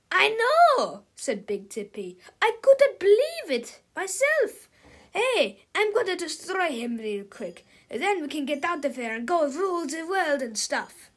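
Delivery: high, eager boasting; excited little villain. Acted. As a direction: brag with excitement. Big Tippy excited villain.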